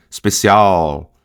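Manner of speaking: "Especial" slow, with the tongue up on the L; old-fashioned final L. Shown as a demonstration. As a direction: stretch "Especial" into an old-time dark L. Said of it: "quem falava muito assim".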